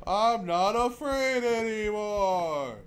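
mock brave shout; defiant yell. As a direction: bellow it to the ghosts.

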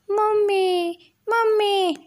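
high-pitched little-chick shout; chick crying out. A narrator's reading. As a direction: call out for mummy in a high baby voice. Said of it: "બૂમો પાડવા લાગ્યું".

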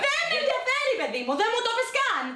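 high-pitched, agitated dismissal; angry scolding. Acted. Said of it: "Γιατί φωνάζεις". (θυμωμένη επίπληξη με ψηλή φωνή)

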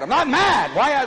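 mildly exasperated denial; mock irritation. Dad answering his kids' repeated question, mock irritated. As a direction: act lightly fed up with being asked. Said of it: "it would make you mad".

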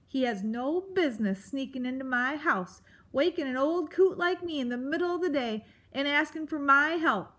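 put-on cranky old coot ranting; grumpy old porcupine. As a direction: scold like a grouchy old creature.

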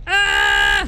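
short loud high yell; startled yelp. Real, not acted. Player reacting to the game, startled yelp. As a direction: cry out sharply.

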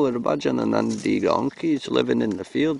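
put-on Scottish donkey voice; Scottish accent. Donkeys asking the cameraman to leave them alone, Scottish accent. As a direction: grumble as a humble donkey in Scots. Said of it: "we can talk in Scottish accent".

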